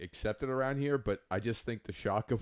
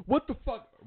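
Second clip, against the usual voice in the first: much higher-pitched, startled reaction; retold startled outburst; 14 semitones higher, 3 dB louder than usual. Flyer reacts to a hand on his back, startled. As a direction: re-enact jumping at a touch.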